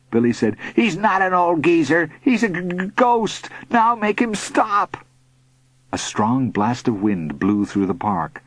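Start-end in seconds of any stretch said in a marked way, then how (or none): 0.7-5.0 high, whining, stuttering plea; frightened stammer. A narrator's reading. Bully surrendering to the boy, scared. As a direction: stammer it out so it stops.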